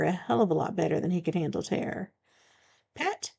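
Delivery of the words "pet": much higher, sharp disbelieving "Pet?"; indignant disbelief. Acted. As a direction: throw the word back at him, offended. Offended at being called pet.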